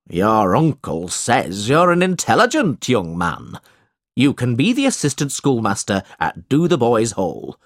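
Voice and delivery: a hint of a pompous schoolmaster; storybook schoolmaster, lightly acted; lightly voiced schoolmaster. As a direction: pronounce it like a schoolmaster making an offer.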